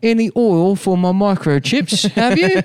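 high, far-off little robot voice; robot child. Acted. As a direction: squeak it up like a tiny begging robot.

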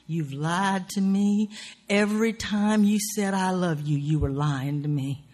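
slow, drawn-out opening accusation, then building; mock lovers' quarrel, hurt party; acted accusation. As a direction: accuse a lover, stretching the first words.

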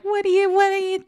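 high, put-on Italian grandpa voice; a grandfather sputtering in a thick Italian-American voice; gruff grandfather. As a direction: bluster like an old Italian grandfather. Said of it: "would be like".

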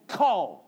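Kol said as a low, single kol; low, careful Kol; Hebrew word kol. Shown as a demonstration. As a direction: say Kol like kole. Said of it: "That's how you would say kol".

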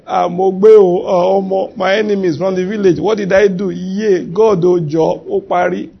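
theatrical Nigerian village-style lamenting; mock crying lament. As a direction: pretend to bewail your fate. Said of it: "he would have been crying".

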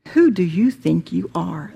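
lightly voiced accusing ego, "Who" leaning up; howling ego. Preacher voicing the ego challenging the listener, lightly voiced. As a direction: throw the question at them as the ego, mildly. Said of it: "The ego will howl".

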